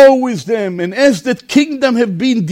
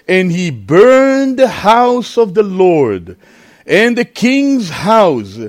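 slow, declaimed Bible reading; stately, slow scripture recitation; slower than usual. A narrator's reading. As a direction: draw the verses out for a congregation.

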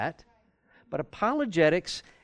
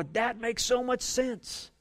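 sudden realization; 7 semitones higher, slower than usual. Retold or imitated. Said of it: "you go".

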